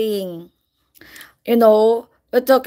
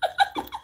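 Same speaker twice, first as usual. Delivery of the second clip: high shrieking laugh; 7 dB quieter than usual. Real, not acted. Laughing at themselves on camera.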